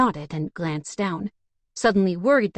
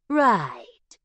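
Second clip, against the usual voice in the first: drawn out. Acted. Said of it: "Paris drew out the word".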